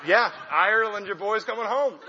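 a burst of thrilled, laughing excitement; pumped. Retold or imitated. After her DNA test, hammed-up glee at being Irish. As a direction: say it like you just won something. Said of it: "I'm so pumped".

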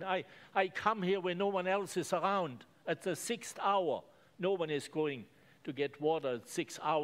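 woman begging Jesus, lightly voiced; pleading woman. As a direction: plead for the living water. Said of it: "begged him".

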